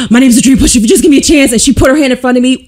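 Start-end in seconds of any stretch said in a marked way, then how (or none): 0.1-1.5 mock desperate plea. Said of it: "I was like".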